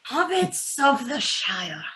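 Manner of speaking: put-on old hobbit drawing out each family name; a lightly voiced Bilbo playing to the crowd; Bilbo's speech. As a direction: savour every name like a toast.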